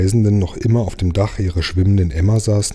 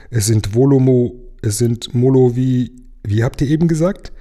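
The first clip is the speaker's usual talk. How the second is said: mermaid stumbling over the word; 5 semitones higher than usual. A narrator's reading. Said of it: "sagte die Seejungfrau".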